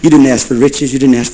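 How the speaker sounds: soft, slow, drawn-out divine call; voice of the Lord. Acted. Preacher as the Lord speaking in Solomon's dream, soft and slow. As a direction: call softly as God in a dream, stretching the words. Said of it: "the Lord in one night in a dream said".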